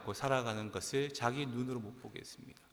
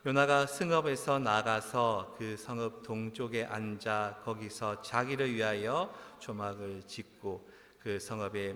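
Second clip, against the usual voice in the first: scripture reading. Real, not acted. Preacher reading verse five with congregation, measured scripture reading. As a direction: lead a group reading in unison.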